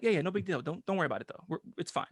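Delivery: soft, meek reassurance; imitated brushing-off. Retelling the kid excusing the cop, softly dismissive. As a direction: mumble it away as no trouble.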